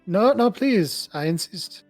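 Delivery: high, slow, pleading insistence; tinged with urgency. A narrator's reading. Natalia insisting Eric takes the croissant, urgent. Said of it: "her voice becomes tinged with urgency".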